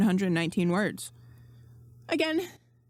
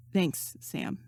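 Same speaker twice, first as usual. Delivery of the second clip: shy thanks; 4 dB quieter than usual. A narrator's reading. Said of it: "shy, nervous smile".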